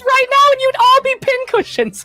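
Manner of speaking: villain threatening the crowd, gloating; gleeful villain threat. Acted. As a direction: savour the threat over the crowd.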